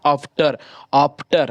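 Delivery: "after" with a long opening आ; खींचा हुआ आ. Shown as a demonstration. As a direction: stretch the first vowel of "after". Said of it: "आ जो सो थोड़ा सा ज़्यादा खींचता है". ("after" का पहला आ खींचकर बोलें)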